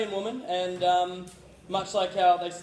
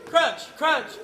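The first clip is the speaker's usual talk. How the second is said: high, shouted onomatopoeia words; sound poetry; 12 semitones higher, 6 dB louder, much slower than usual. Acted. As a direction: shout each sound word, high and punchy. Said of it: "creating an onomatopoeia".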